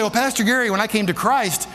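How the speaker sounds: lightly voiced objecting congregant; a hint of a questioner pushing back; doubting churchgoer. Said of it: "people say".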